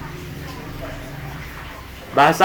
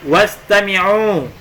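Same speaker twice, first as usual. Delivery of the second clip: slow model word; 3 semitones higher, much slower than usual. Shown as a demonstration. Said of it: "teacher models Arabic word slowly".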